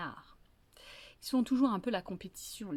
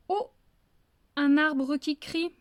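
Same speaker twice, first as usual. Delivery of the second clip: slow, a bit louder, drawn-out; slow solemn greeting; 5 semitones higher, 5 dB louder than usual. Acted. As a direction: intone it like a ritual phrase. Fox's third wrong greeting.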